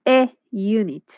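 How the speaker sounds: "A unit" slowly, as "eh yoo-nit"; slow teacher's demo of "unit" opening with y; same Y-glide sound. Shown as a demonstration. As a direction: draw out "A unit" to show the y-glide. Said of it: "Es el mismo sonido de unit".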